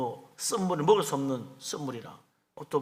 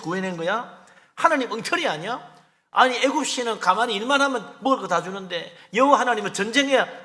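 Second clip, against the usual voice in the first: higher, louder mock grumbling; complaining crowd; 5 semitones higher, 4 dB louder than usual. Preacher voicing Israelites blaming God, louder mock grumbling. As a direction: whine at God like ungrateful Israelites. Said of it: "하나님 그때부터 원망하고".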